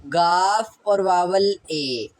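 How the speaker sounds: गाफ और vowel ए said slowly, piece by piece; slow sounding out. Shown as a demonstration. Teacher sounding out a Korean syllable for students. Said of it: "यानी कि गाफ की".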